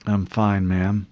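drowsy and sedated; words heavy with sleepiness; groggy. Acted. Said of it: "John replied groggily".

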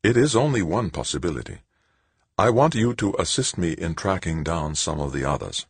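lightly voiced sister, measured explanation; composed Sister Angelique. Sister recruits a reluctant man to her investigation, composed.

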